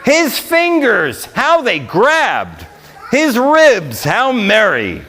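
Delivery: rhythmic, sing-song reading of a Christmas poem; poem recitation. A narrator's reading. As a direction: read it like a holiday verse to the crowd. Reads Christmas poem to audience.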